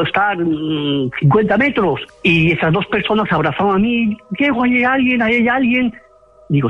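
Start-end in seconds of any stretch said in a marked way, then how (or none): 4.4-5.9 high, urgent mock yell without real volume; retold frightened cry. Two cousins hugging Diego warn him, retold frightened cry. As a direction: imitate someone scared, pitched well up. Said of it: "me gritaron".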